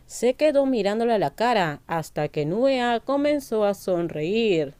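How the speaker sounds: read-aloud narrator voice; story narration. A narrator's reading. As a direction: narrate a love story evenly, each phrase falling at the end. Narrates a translated love story.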